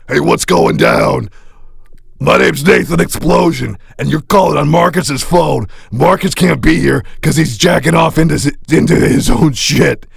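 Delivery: a touch of swagger, shout the sign-off; mock rock star greeting. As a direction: rock star leaving a rude voicemail, mostly in his own voice. Third voicemail take, insulting.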